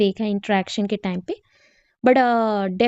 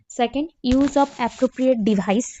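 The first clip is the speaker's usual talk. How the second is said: slow dictation; much slower than usual. Shown as a demonstration. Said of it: "teacher dictating components".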